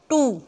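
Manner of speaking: "टू" set apart with emphasis; isolated, emphatic "टू"; stressed syllable. Shown as a demonstration. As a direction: lean firmly on "टू". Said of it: "इसके ऊपर हमने stress दिया".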